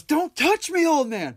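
high, loud sneering Joker impression. Podcaster imitating Joker brushing off Sal, high and loud. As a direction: snap it like a disdainful Joker. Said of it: "he goes".

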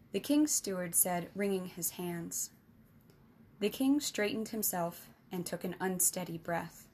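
measured storybook narration; story narration. A narrator's reading. Narrator reading a fantasy tale to listeners, steady storytelling. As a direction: read it like an audiobook chapter.

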